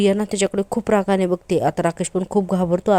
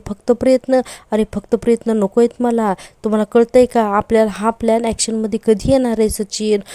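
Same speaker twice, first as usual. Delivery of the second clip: irritated; 2 semitones higher than usual. Retold or imitated. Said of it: "खूप चिडचिड करत असते".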